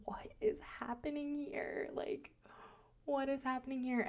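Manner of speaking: breathless whisper, high; whispered disbelief. Retold or imitated. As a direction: hush it out in shock. Acted bewildered inner thought.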